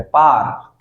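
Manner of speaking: पार as 'paar', R sounded; one syllable पार ending on R; American R pronunciation. Shown as a demonstration. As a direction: keep the R in पार. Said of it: "फिर वो रे बोलते हैं".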